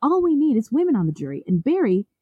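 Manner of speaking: smug boasting voice, rising high at the end; cocky boast. Retold or imitated. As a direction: play him as a vain ladies' man. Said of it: "Nichols told him".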